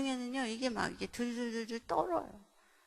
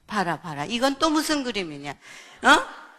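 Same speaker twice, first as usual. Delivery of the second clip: loud interrogation, sharp rise at the end; acted scolding; 11 dB louder than usual. Mother confronts child over notebook picture, loud scolding. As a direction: play an accusing parent.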